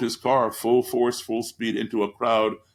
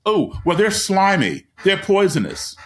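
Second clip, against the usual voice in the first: 1 imitating kids; 7 semitones higher, 4 dB louder than usual. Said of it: "I asked them".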